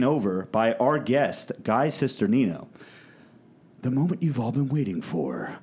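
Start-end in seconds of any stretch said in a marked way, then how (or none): 3.8-5.6 ringmaster. Pretend. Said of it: "Rob, intro it properly".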